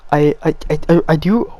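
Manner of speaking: stuck repeating the first word; stuttering. Real, not acted. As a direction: stammer from the cold. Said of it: "I'm sorry that I'm stuttering".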